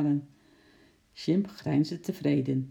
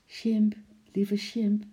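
higher, slow sweet coaxing; gentle coaxing; 5 semitones higher, slower than usual. A narrator's reading. Lotje coaxing her pet monkey, gently. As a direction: draw it out tenderly, pitched up. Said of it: "zei ze zachtjes".

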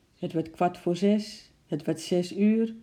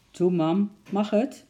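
put-on high, loud pleading little girl; begging child; 5 semitones higher, 4 dB louder than usual. A narrator's reading. Lotje begging mum to go outside. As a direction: beg mum sweetly. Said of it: "vroeg Lotje nog eens".

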